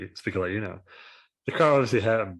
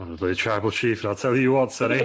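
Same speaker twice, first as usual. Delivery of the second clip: booming warrior king; 4 dB louder than usual. Retold or imitated. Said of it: "That's what he said last week on SmackDown".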